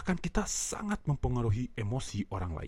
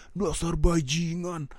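friendly teasing insult; 3 semitones higher, 3 dB louder, slower than usual. Shown as a demonstration. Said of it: "dia ketawa".

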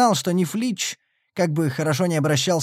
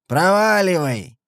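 put-on slurred drunken yell; hiccuping drunk; 4 semitones higher, 4 dB louder, slower than usual. A narrator's reading. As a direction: shout it like a drunk. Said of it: "пьяно крикнул Сэм".

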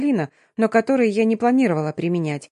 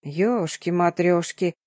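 drawn-out singsong; 2 semitones lower, 3 dB quieter, slower than usual. Acted. Nurse seeing the battered girl, slow singsong gasp. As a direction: stretch it out in amazement. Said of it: "протяжно пропела наша дежурная медсестра".

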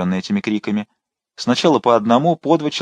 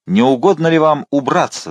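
sharp, higher cry at the officer; shouted; 6 semitones higher, 3 dB louder than usual. A narrator's reading. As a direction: throw him out with a raised voice. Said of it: "закричала она Коменшу". (возмущённый выкрик)

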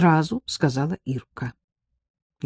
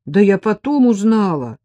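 guilty; 5 semitones higher, 6 dB louder than usual. A narrator's reading. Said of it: "виновато отбивалась Ирка".

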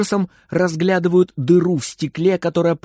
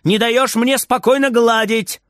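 higher, scolding call from another room; calling out angrily; 7 semitones higher than usual. Acted. Grandma scolding Frieder from the kitchen, calling out. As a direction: tell him off from the kitchen. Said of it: "кричит бабушка из кухни".

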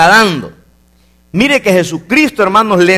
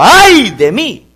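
slow, drawn-out cry of woe, higher; drawn-out prophet's lament, pitch lifted; Isaiah's lament; 5 semitones higher, 4 dB louder, much slower than usual. Acted. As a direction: stretch out every word as a man undone.

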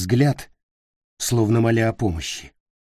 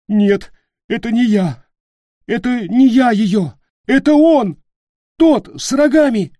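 high, loud, panicked pleading; terrified denial; 14 semitones higher, 8 dB louder than usual. Acted. Leroy begging Peter, panicked and high. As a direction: deny it in frantic terror. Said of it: "Лерой всхлипнул".

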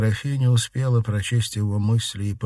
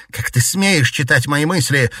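higher and louder, indignant; outraged shout; 7 semitones higher, 6 dB louder than usual. Acted. Daughter shouting at her mother for reading her mind, outraged. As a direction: hurl the accusation at her. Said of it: "крикнула Дельфина Шадурской".

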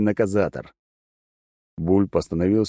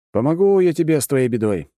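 resolute; 7 semitones higher, 4 dB louder than usual. Acted. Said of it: "решился я".

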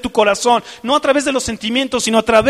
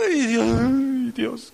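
tearful cry; 2 semitones higher, much slower than usual. Pretend. Adoración llorosa ante Dios.

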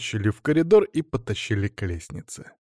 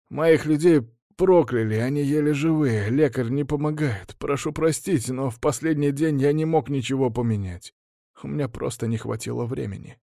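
pleading baron; 4 semitones higher than usual. Acted. Baron pleading with his master.

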